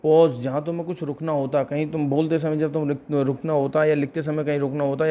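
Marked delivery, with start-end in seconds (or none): 0.1-0.3 slow, deliberate teacher reading out English; slow English dictation. Shown as a demonstration. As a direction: spell it out slowly for the class. (धीमे-धीमे अंग्रेज़ी में पढ़ाते हुए)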